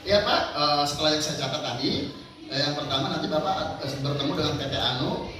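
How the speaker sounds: reading back notes. Shown as a demonstration. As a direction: read the boss's schedule back politely. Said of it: "Diucap ulang".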